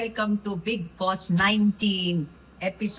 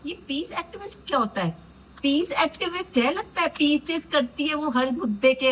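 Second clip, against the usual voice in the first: sarcastic mockery; 4 semitones higher than usual. Real, not acted. Mocking the term peace activist.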